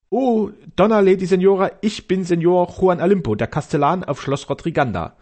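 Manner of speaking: proudly introducing himself to the lady; pompous castellan. Acted. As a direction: puff yourself up like a proud old castellan.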